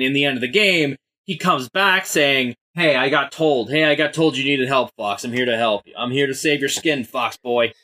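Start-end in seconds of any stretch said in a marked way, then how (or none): 2.7-7.7 put-on cocky Brooklyn tough-guy accent; swaggering Brooklyn wiseguy voice. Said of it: "In this really stupid Brooklyn accent".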